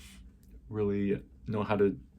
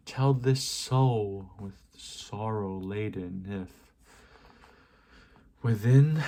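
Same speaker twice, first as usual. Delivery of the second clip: rising, emphatic verse reading with long pauses; dramatic poetry recitation. Acted. Questioning the prophet bird in the poem, dramatic declamation. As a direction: declaim it to the raven, punching key words.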